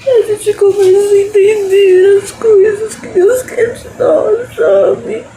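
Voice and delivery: tearful, voice breaking, laughing through tears; crying with love. Real, not acted. Praying to God, crying with love and laughing. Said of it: "Eu não tô chorando de tristeza".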